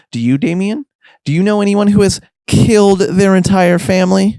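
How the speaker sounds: needling questions climbing high at the end; feigned innocence building to pointed, high-pitched questions; taunting innuendo. Acted. Best needles Damien about killing his family, taunting and pointed.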